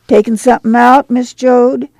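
lightly voiced neighbour calling a question; inquiring neighbour. A narrator's reading. Neighbour asks the passing mother, lightly inquisitive.

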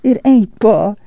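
smiling. A narrator's reading. Wife comforts her despairing husband, smiling. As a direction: lift the voice kindly to comfort him. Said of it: "Ma smiled".

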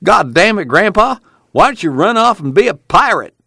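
high, cheeky mock outburst; smart aleck. A narrator's reading. Pa quoting brother Al needling Grandpa, smart-aleck. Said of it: "he's a smart aleck now, he says".

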